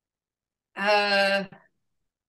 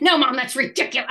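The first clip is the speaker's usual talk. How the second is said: explosive denial; 3 semitones higher, 4 dB louder, faster than usual. Retold or imitated. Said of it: "even got more explosive".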